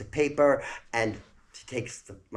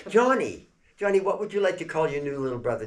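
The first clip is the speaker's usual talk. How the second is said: calling out; 7 semitones higher, 5 dB louder than usual. Retold or imitated. Mother calls on son.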